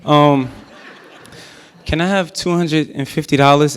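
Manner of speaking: sweet, lightened asking voice. Retold or imitated. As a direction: soften it up like asking mom for money. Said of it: "you lighten your voice up".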